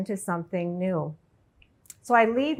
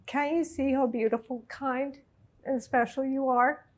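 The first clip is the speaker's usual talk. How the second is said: tender, moved; 3 semitones higher, 5 dB quieter than usual. Retold or imitated. Mother repeating her daughter's loving words, tender and moved. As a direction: quote the loving words gently, choked up.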